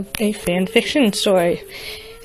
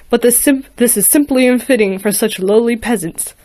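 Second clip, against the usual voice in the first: booming Darth Vader; 4 dB louder than usual. Acted. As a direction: menace the ponies like a Sith lord. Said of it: "with his voice booming loud".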